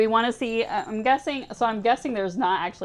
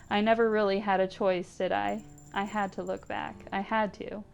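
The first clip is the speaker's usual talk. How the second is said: story narration. Acted. Streamer reading a dying cat's owner's thoughts, tender narration. Reads game story text aloud.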